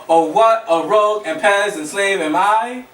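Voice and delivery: "Oh, what a rogue and pez and slave am I" with every second syllable stressed; measured da-DUM beat through "Oh, what a rogue and pez and slave am I"; iambic reading. Shown as a demonstration. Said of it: "that's you reading it".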